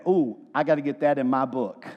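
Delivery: low, mock-excited aside as if spotting a scoop; gossipy gospel writers. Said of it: "all four went".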